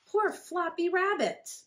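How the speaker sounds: high, slow, drawn-out pity; pitying rabbits. Acted. The rabbits mourning Floppy, high and slow. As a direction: stretch it out like sad rabbits. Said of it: "said the other rabbits".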